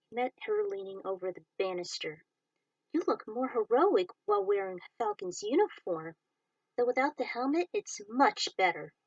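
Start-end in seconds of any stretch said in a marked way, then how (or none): 2.9-8.9 put-on higher, light voice for a teenage cadet paying a compliment; lightly voiced teenage girl, admiring; a hint of a shy cadet complimenting her partner; young woman cadet Tinsel.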